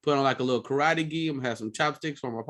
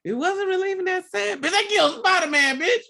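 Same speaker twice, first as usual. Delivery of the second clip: very high comic wail, building louder; mock tearful outrage; 3 dB louder than usual. Man defending his tears over Spider-Man, hammed-up wailing. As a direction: cry it out in exaggerated grief.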